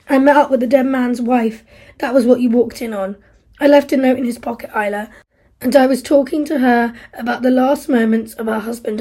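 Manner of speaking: guilt and rebuke. Acted. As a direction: turn the guilt on her. Steve confesses guilt, then rebukes Isla.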